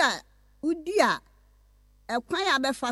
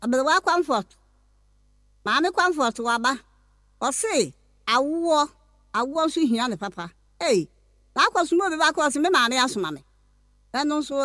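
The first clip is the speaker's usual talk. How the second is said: a louder, fervent announcement to the crowd; full-voiced preaching to listeners; 4 dB louder than usual. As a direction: proclaim it loudly like a fervent preacher. Elder preaches her services loudly.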